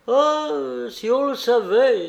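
voix de nain haut perchée et forte; nain moqueur. Acted. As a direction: exclaim it high and loud, like a teasing dwarf. Un nain nargue Jean. (nain railleur, voix aiguë)

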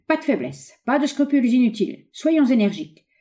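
high, emphatic urging; rally him in short, high bursts; rousing exclamation. A narrator's reading. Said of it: "s'écria-t-il". (exhortation vive, voix haute)

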